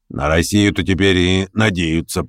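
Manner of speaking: officer. Acted. Officer's remark.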